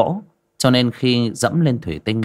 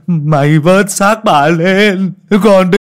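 frantic order; 10 semitones higher, 8 dB louder, much slower than usual. Acted. Grieving master orders servant.

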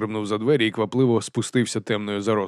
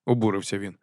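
plain reading voice

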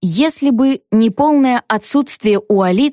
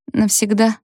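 sympathetic. Acted. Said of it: "сочувственно поинтересовалась".

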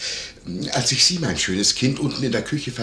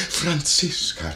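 drawn-out, higher mimicked call; imitated calling out; 4 semitones higher, much slower than usual. Landlord mimicking the lady calling her maid, drawn-out call. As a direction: stretch the name as the lady called it. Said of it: "rief sie, die Augen auf mich gerichtet".

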